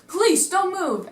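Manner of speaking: high, loud commanding yell; police shout. Retold or imitated. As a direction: bark the order like a cop. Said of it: "and they say".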